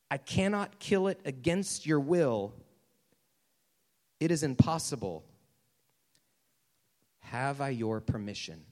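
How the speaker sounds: measured angel stating the terms; acted solemn insistence; solemn, firm angel.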